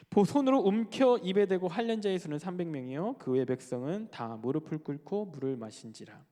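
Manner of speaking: measured formal Bible reading; scripture reading. Acted. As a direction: read the verse out deliberately. Reads scripture aloud. (성경을 낭독하듯 또박또박)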